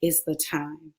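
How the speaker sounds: quietly, slowly, a still voice from God; God's voice. Retold or imitated. Grieving daughter hears God urge her to write, hushed and slow. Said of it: "I heard God say".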